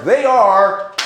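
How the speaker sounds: drawn-out shout building on OUT; slow, loud announcer's dismissal; umpire-style call-out. Shown as a demonstration. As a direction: start plain, then bellow the ejection. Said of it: "we will get to call them out".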